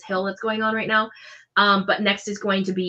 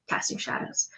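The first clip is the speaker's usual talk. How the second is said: whisper; 9 dB quieter than usual. Acted. Dramatic GM whisper.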